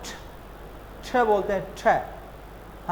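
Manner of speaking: ठ said soft and aspirated; soft British t. Shown as a demonstration. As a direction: breathe out the ठ lightly. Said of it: "जो Britishers हैं, वो टी को क्या बोलते हैं". (ठ हल्का और हवा के साथ)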